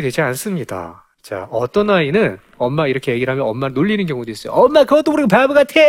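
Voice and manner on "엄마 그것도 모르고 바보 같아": mocking child. Child teasing his mother.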